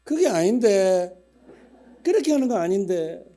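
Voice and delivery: put-on a church elder objecting loudly in a Gyeongsang accent; Gyeongsang auntie. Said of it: "우리 경상도 권사님은".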